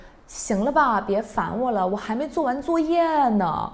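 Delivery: really annoyed. Shown as a demonstration. Older sibling brushing off little brother, really annoyed. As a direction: snap at the pestering brother. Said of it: "that sounds really annoying".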